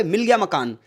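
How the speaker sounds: मिल गया said first with weight, falling on गया; eager news home with weight on मिल गया; stress on मिल गया. Shown as a demonstration. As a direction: announce it, leaning on मिल गया. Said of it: "आपने किस चीज़ पर जोर दिया? मिल गया".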